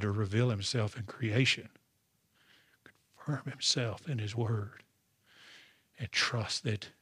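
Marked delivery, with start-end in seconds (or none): 3.2-6.9 soft unvoiced whisper. Real, not acted. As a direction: drop to a whisper. Whispered line mid-sermon.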